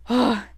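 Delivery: heavy breath out, then a groaned oh; exasperated sigh. Retold or imitated. Ref fed up with players who keep talking, exasperated sigh.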